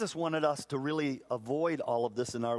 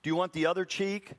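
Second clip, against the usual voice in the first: mock offer; 3 semitones higher, faster than usual. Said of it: "I'm supposed to say".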